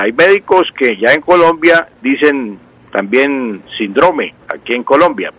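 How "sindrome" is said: síndrome as sin-DRO-me; stress on middle syllable. Shown as a demonstration. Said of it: "lo mismo pasa con esta palabra".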